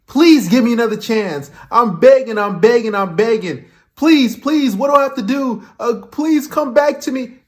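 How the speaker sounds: mock pleading, pitched a little up; imitated begging. Commentator imitating men who beg exes for another chance, mock begging. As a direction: run the pleas on like a man begging. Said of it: "practically begging and pleading".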